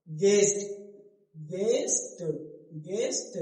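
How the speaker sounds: गेस्ट said carefully as "gest"; no w glide in गेस्ट, t released; silent u. Shown as a demonstration. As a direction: repeat गेस्ट with g straight into e. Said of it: "तो यहाँ यू क्या है?".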